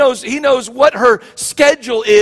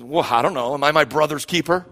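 snarky sarcastic; 7 semitones lower than usual. Retold or imitated. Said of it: "this sort of snarky, sarcastic comment".

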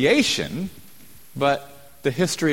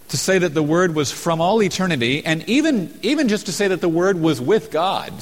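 higher and louder, pressing each phrase; rising preaching fervour; 6 semitones higher, 3 dB louder than usual. Real, not acted. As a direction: preach it out, building intensity. Preacher building emphasis.

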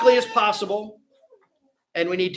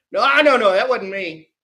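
flustered denial; 3 semitones higher, 4 dB louder than usual. Acted. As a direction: caught out and scrambling to deny it. Peter voiced denying the accusation.

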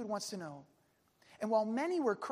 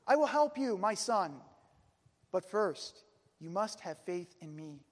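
majestic booming voice; 5 dB louder than usual. Acted. God answering the climber through the gorge, majestic booming. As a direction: boom it out with stately weight. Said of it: "a majestic voice that boomed through the gorge".

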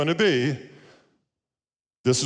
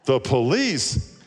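surprised echo; 3 semitones higher, 4 dB louder, slower than usual. Acted. Caller echoes child in surprise.

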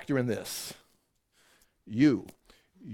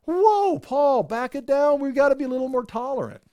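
mock objector; 10 semitones higher than usual. Imagined objector pleading with Paul.

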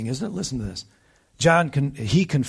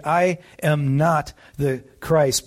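very slow, every word spaced and firm; emphatic clarification; slower than usual. Retold or imitated. Preacher quoting John the Baptist making it perfectly clear, slow and firm. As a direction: spell it out so no one can doubt it. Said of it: "he clarifies that right out of the gate".

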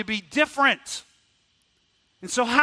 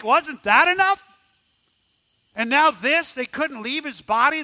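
rising anguished outcry; 4 semitones higher, 3 dB louder than usual. Acted. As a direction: pitch climbing higher with each "Wasn't that enough?". Preacher voicing the women's anguish.

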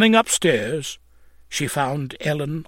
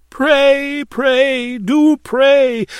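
high, loud, desperate plea; crying out; 10 semitones higher, 6 dB louder, much slower than usual. A narrator's reading. Lodger begging her landlady to pray, crying out. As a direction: cry each word out high and urgently. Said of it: "cried Ellen".

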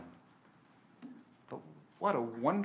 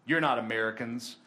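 low, level statement of suspicion; retold intimidating soldier; 3 semitones lower than usual. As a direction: lightly voice a suspicious border guard. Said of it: "they get a little scared".

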